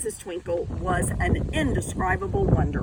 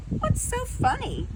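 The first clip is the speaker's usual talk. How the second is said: much higher, slow, dreamy teacher; sweet teacher voice. Acted. Music teacher asks the laughing class, high and dreamy.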